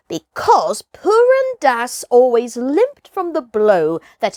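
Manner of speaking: hint of an old village hunter swearing it's true; mild solemn storyteller hunter; boastful old hunter. Buldeo tells ghost tiger tale.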